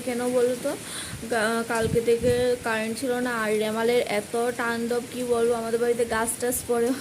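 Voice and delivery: talking with a toothbrush in mouth; while brushing teeth. Real, not acted. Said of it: "brush করছি".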